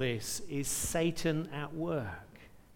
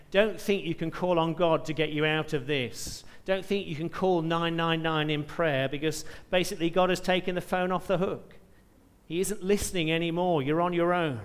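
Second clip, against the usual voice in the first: mild devilish taunt; 2 semitones higher, 4 dB louder than usual. Acted. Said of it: "it's as though he's saying".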